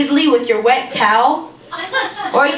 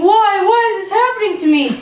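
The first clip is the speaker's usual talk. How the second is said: higher, fast mock panicked wail; mock screaming; 7 semitones higher than usual. Imitating scared sister fleeing the store, mock panic. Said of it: "running out of the store screaming".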